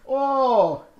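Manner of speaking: hearty goblin laugh. Pretend. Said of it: "hearty goblin laugh".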